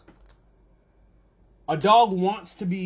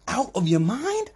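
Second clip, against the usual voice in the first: climbing high and loud in disbelief; incredulous protest; 11 semitones higher, 4 dB louder than usual. Acted. To the alien owners about Zoe, a high outraged squeal. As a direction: squeal it out higher and higher, can't believe it. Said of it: "you're sitting here going".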